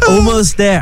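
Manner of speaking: a hint of a talking gadget; talking watch. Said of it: "The watch saying".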